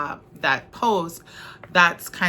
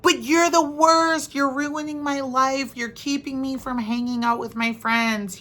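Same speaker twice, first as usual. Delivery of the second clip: put-on whiny teenager; 6 semitones higher than usual. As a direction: play the teenager wailing at a parent, pitch up high. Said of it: "they're like".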